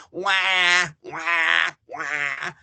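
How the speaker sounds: taunting wah wah, trailing off; mock crying. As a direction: jeer at them like crybabies. Mocking Pittsburgh as crybabies.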